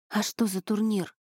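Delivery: plain reading voice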